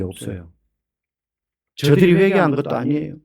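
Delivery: 하나님께 떼쓰는 엘리야, 처음엔 속삭이듯 하다가 높아지며; a worn-out prophet pleading, petulant and spent; whining Elijah. Retold or imitated. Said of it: "엘리야가 막 생떼를 쓰거든요". (지친 예언자가 생떼 쓰듯 투덜대며)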